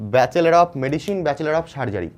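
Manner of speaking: Bachelor of Medicine said very slowly, word by word; teacher unpacking what MBBS stands for; slow spelling out. Real, not acted. Teacher expanding the abbreviation slowly.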